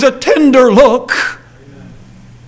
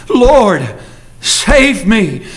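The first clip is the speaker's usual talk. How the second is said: intense plea; much slower than usual. Acted. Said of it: "response was immediate, and it was intense".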